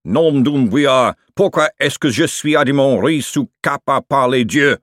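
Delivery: loud, drawn-out outburst in French; scream. Acted. Chef after throwing the knife, screaming in Quirmian. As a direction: cry out in mock French, high and loud. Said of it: "followed by a scream of".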